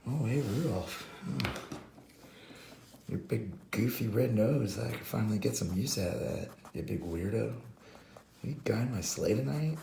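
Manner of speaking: suddenly friendly, lightly mocked; butter him up a little, tune lifting on the request; Santa. Santa needs something from Rudolph, changed mock-friendly tone. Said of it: "he changed his tone a little bit".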